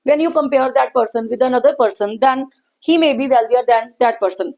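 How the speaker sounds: very slow, word by word dictation. Acted. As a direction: spell out the rule slowly for notes. Dictating example slowly to students. (धीमा, शब्द-दर-शब्द लिखवाना)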